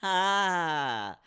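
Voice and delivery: laughing, high and loud; villain laughing. Acted. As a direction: cackle through the words like a villain. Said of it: "I'm gonna do my thing again".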